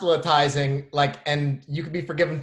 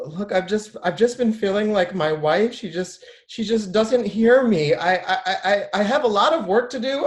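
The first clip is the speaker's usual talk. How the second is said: troubled patient; 6 semitones higher than usual. Acted. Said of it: "just do the patient act out".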